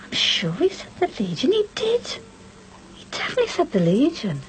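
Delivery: whispered, dawning doubt; stunned whisper. Acted. Wife realising her husband lied about the Legion, whispering. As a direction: breathe it out in disbelief.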